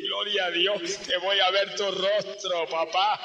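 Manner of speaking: rising into a slow, drawn-out shout on the last line; a dying believer praising God, his voice swelling; joyful praise. Retold or imitated.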